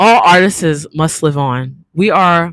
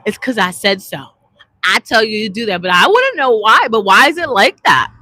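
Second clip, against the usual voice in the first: lightly voiced adult, then a kid pushing back louder; 3 semitones higher, 3 dB louder than usual. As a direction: play the parent, then rise into a demanding child. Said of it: "'cause adults say that".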